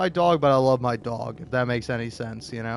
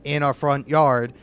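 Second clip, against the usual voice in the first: louder scolding of the dog; mock yell at dog; 6 dB louder than usual. Scolding the dog Kip over the bunny, a mock yell. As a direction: tell the barking dog off, louder.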